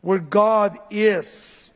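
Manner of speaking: slow, drawn-out preacher's cry; stretched, very slow appeal. Retold or imitated. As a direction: imitate the psalmist calling out, word by word. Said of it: "As he's crying out, he's saying".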